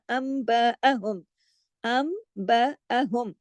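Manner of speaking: अम्बअहुम with the nun turned to a hummed mim, slow; nasal mim. Shown as a demonstration. Teacher demonstrates iqlab for students, slow. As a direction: say अम्बअहुम with lips closed on the m. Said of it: "यहाँ इख्फा शफवी हो गया".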